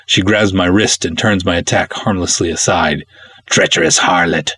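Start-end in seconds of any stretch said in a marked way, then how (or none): 3.5-4.5 low, snarled insult; snarling. Acted. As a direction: spit it out low and venomous. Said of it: "she snarls".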